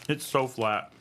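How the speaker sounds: talking while crunching nuts; crunching chips. Real, not acted. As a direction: mouth full of crunchy nuts. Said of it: "You can hear me crunching".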